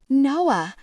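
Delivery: high, loud scream. Acted. Tegan screams out to Noah from the alley, loud and high. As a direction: scream for him to find you. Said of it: "I heard her scream out".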